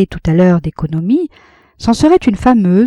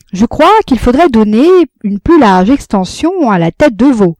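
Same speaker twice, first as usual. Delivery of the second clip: earnest orator; 5 semitones higher, 6 dB louder than usual. A narrator's reading. Compin's earnest proposal.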